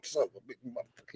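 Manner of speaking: soft, quick cartoon cursing under the breath; Yosemite Sam. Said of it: "doing the Yosemite Sam thing".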